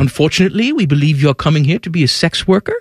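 put-on a light New Zealand accent, barely there; only a hint of New Zealand accent. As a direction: politely break bad news in a faint New Zealand accent. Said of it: "I'm gonna stop doing this accent".

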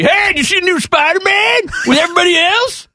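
high, far-off mocking hipster voice; mock T-Bone. Mocking his cohost's snobby taste. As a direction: sneer like a too-cool music snob. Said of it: "T-Bone's too cool for school".

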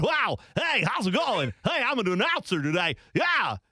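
high, hammed-up announcer parody; mock an over-excited announcer; put-on shouty announcer voice; big announcer voice. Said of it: "I do not like announcer voice guy".

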